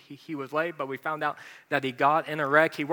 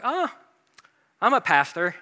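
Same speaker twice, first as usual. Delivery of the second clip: sheepish, trailing admission; hesitant admission; 4 semitones higher, 5 dB louder than usual. Retold or imitated. Pastor admitting his job to a gym friend, hesitantly. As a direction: own up to it a bit unsure. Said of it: "basically I'm just like".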